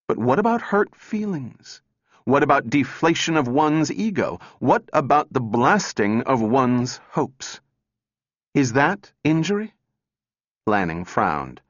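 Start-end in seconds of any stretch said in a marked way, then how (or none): 0.1-9.7 high, insistent run of questions; heated challenge. A narrator's reading. Calvin argues hurt feelings with the men, heated and insistent. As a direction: press each question harder, pitched up.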